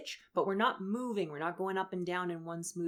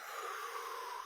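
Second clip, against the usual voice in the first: slow exhale through the mouth; breathing out; 10 dB quieter than usual. Shown as a demonstration. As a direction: push the air out from the stomach. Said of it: "breathe out with your stomach".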